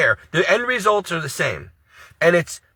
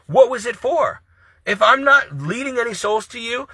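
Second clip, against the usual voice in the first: raised, anguished pleading to God; pleading prayer; 3 semitones higher than usual. Real, not acted. Vlogger retelling his prayer to God, anguished pleading. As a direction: beg the Lord for an answer. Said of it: "I'm like, Lord".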